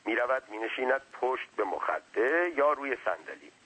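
hint of a humble but wordy underling; deferential servant. Servant making his case to his master, lightly deferential.

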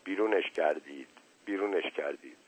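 low, soft mutter under the breath. A narrator's reading. Dazed Uncle Napoleon repeating news to himself, muttering. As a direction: repeat it quietly to yourself. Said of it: "زیر لب تکرار کرد".

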